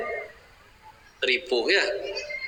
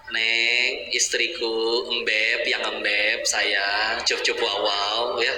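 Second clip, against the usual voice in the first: slow, cooing pet names; sweet-talking husband; 4 semitones lower, much slower than usual. Retold or imitated. Husband sweet-talking his wife, slow cooing. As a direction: coo at her like a doting husband.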